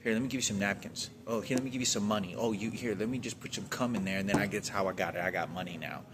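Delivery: retelling the cashier's pushy, aggressive offer; mock aggressive cashier. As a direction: imitate her controlling, confronting tone. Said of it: "aggressive and, like, confronting, controlling attitude".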